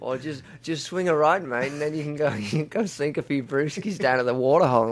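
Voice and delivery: put-on light Australian accent, playful and easy; Australian accent, giving friendly local directions. Australian map giving directions in a light Australian accent. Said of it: "a really Australian map going".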